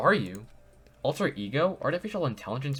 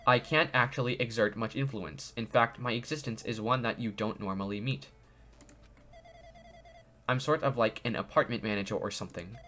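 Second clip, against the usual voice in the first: lightly robotic AI voice. Acted. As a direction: read it like a calm robot. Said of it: "it's like a robotic voice".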